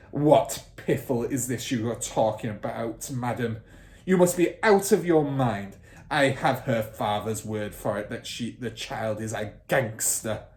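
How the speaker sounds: loud, contemptuous bully; scornful headmistress. Acted. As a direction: dismiss her scornfully. Trunchbull voiced.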